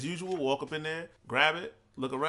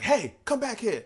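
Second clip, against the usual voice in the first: higher, louder, slow mock shout; mock gruff yell; 9 semitones higher, 4 dB louder, slower than usual. Male worker yelling at fleeing thieves, mock shout. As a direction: call after them like a guard. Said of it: "a guy".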